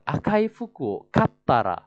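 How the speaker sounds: slow, careful teacher model; slow demo of the reply; slow model reading. Shown as a demonstration. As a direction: say it slowly for the class to copy.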